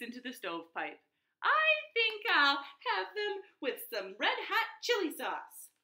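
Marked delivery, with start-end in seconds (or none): 1.4-5.7 higher, louder yelping cry; pained cry. Acted. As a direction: cry out as the chili burns. Coyote screams in the fire.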